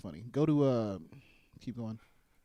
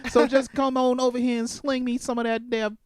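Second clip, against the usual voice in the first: mock Southern wife; 3 semitones higher than usual. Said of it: "She'll say".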